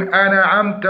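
أنعمت with an echoing bounce on the nun, "ana-ʕamt"; bouncing nun. Shown as a demonstration. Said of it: "قلقلة النون فيقولون". (قلقلة خاطئة على النون)

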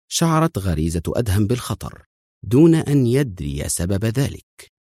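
ordinary delivery

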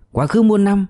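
high-pitched mock roar; mildly acted shouted slogan; rowdy cheer. A narrator's reading. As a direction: chant it like a gang's salute. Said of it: "cũng vung tay gào".

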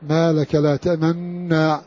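تأمنا with one doubled nun and lips rounded after it; إشمام مع الإدغام، بطيء; ishmam with merging. Shown as a demonstration. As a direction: merge the nuns in تأمنا, then purse the lips silently. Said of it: "بإشمام مع الإدغام".

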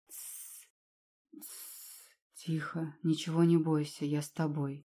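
soft, tender hush that fades into quiet words; calm a frightened girl gently; hushing whisper. Acted. Ректор успокаивает очнувшуюся Алину. (нежный успокаивающий шёпот)

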